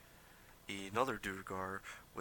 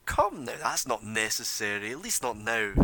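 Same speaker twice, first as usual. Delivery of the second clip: smooth stranger voice; 8 dB louder than usual. Acted. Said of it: "the guy who's just appeared out of nowhere is like".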